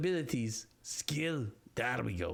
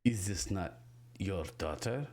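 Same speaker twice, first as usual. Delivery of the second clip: puzzled Bramble; 5 semitones lower than usual. Acted. Bramble questions the mother about her daughter, low and puzzled. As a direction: ask it low and carefully, unsure.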